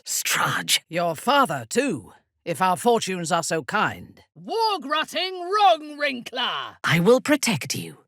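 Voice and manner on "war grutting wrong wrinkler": drawn-out, high, mocking insult; slow insult. Warrior taunts her enemy with a slow, high insult. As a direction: spit the insult slowly.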